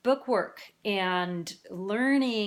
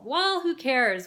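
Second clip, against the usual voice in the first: drawn-out, higher "who cares"; slow, raised mock shrug of a question; dismissive sceptic; 5 semitones higher, 4 dB louder, slower than usual. Presenter voicing a sceptic of bilingualism, dismissive.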